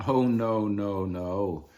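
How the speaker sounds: captain refusing the plan; gruff pirate refusal. A narrator's reading. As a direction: wave it off like a pirate boss.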